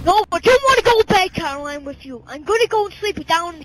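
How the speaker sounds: loud, indignant refusal; loud refusal to wife. Acted. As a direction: tell her no, loudly.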